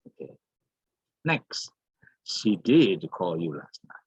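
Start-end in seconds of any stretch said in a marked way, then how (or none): 2.2-4.0 DID punched before "call"; emphatic DID. Shown as a demonstration. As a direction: hit the word DID to affirm it. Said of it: "uses did in order to stress".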